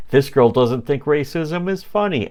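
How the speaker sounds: lightly hammed-up condescending explanation; mansplaining. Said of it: "he mansplains over her".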